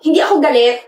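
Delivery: touchy and defensive; annoyed denial. Acted. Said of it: "Eh, ba't ka sumisigaw?".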